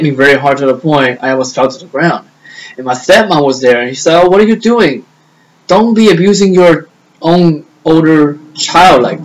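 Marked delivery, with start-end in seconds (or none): 3.9-9.2 higher-pitched retold reproach; retold scolding. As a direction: act out a mild telling-off. Stepmom scolding the abusive dad.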